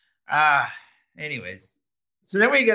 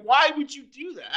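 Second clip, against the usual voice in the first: a hammed-up, higher-pitched why would you do that; mock exasperated; 9 semitones higher than usual. Friend who ruined my favorite shirt, mock exasperation.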